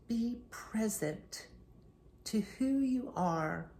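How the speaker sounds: unhurried meditation guide with long pauses; guided meditation. Acted. Coach leading listeners through a year-end future pacing exercise, guided meditation. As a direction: ease listeners into stillness, phrase by phrase.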